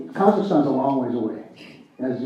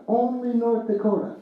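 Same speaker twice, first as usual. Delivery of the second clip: wry repeat; 8 semitones higher than usual. Shown as a demonstration. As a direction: shake your head fondly as you echo it. Speaker repeats punchline for effect.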